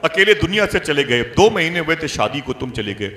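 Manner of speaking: acted-out grieving reproach; retold anguished cry. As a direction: cry out to the lost husband, in a preacher's retelling. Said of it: "चीखती रही, तड़पती रही".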